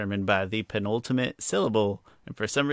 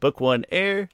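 mock title; 8 semitones higher, 4 dB louder, slower than usual. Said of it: "or book one, pardon me".

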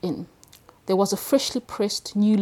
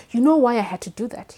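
breathless; 4 semitones higher, 6 dB louder than usual. Acted. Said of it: "he said breathlessly".

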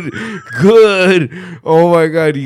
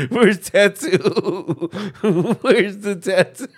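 laughing; 4 semitones higher, slower than usual. Retold or imitated. Mock lab tech, laughing.

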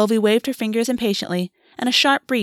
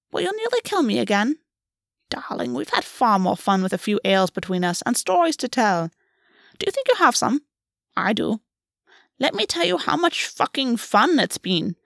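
playful fey queen; 3 semitones higher than usual. Acted. Gulvey, playful and bitter.

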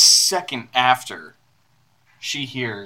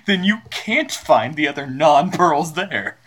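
mock quote; 3 semitones higher, slower than usual. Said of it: "I was like".

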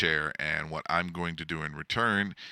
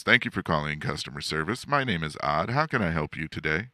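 other customer service voice; faster than usual. Shown as a demonstration. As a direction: rattle off the call greeting, understated. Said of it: "Sometimes my customer service voice is".

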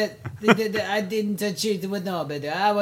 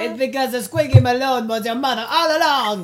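1 laughing reveal; 3 semitones higher, 4 dB louder than usual. Acted. Dramatic reveal shouted through laughter.

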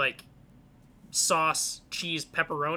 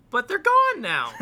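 mock grief; 8 semitones higher, 7 dB louder than usual. Mourning lost pizza place.

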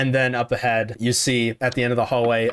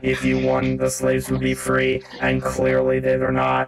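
gloating villain. Acted. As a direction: savour every word of power. Villain rebuts player.

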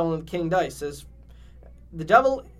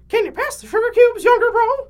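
high squeaky cartoon voice; 10 dB louder than usual. Cuphead voiced in the fanfic.

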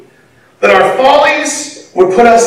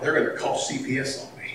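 hissed parent threat; 5 semitones lower, 15 dB quieter, faster than usual. Retold or imitated. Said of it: "said in the middle of Walmart".

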